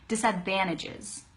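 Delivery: "disadvantages" run together as "disadvannages"; connected "disadvantages", N for NT; quick pronunciation. Shown as a demonstration. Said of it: "able to say it quickly".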